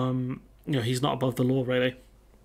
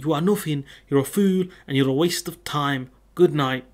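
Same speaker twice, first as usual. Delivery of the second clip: mock Manc tough-guy put-down, somewhat louder; half-hearted imitation of a Manc tough guy signing off; Andy Tate impression; 4 dB louder than usual. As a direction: sneer it like a bad Manc influencer impression. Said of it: "reminds me of, uh, Andy Tate".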